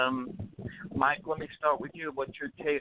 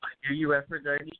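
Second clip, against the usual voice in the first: muffled bad phone line; hydrophone underwater voice. Real, not acted. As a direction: voice breaking up like underwater. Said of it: "you sound like you're underwater".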